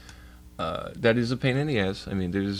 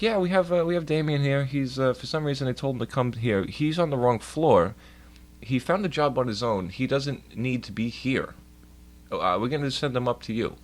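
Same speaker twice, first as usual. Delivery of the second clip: imitated staffer on the phone; 4 semitones higher than usual. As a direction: report it to a supervisor, spelling out the problem. Acts out staffer phoning supervisor.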